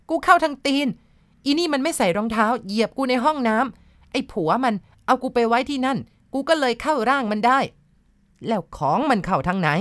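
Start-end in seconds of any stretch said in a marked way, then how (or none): 0.1-7.6 put-on high, pained spirit answering through the girl; a trapped ghost confessing, voice pitched up high; possessed spirit voice. A narrator's reading. Ghost in the girl answers the healer, pitched high.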